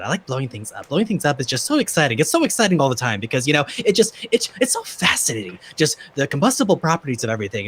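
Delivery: a hint of a distracted genius; scattered inventor voice. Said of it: "Art's gonna be a little bit up here".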